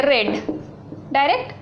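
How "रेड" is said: रेड said in one unbroken beat; direct red. Shown as a demonstration. Teacher demonstrating रेड in one beat. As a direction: say रेड straight through with no break. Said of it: "direct कैसे बोलते हैं".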